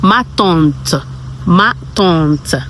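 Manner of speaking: "ma tante" as "mah tont"; "ma tante" with a rounded vowel in "tante"; French pronunciation. Shown as a demonstration. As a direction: repeat "ma tante" clearly for learners. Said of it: "how do you say my auntie in a French word".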